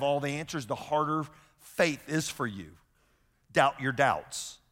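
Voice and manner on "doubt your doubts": slow, weighty statement. Shown as a demonstration. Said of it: "Number two".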